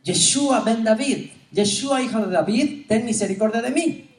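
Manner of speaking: loud pleading cry for mercy. Retold or imitated. Foreign woman crying out to Yeshua, loud plea. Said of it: "le está gritando".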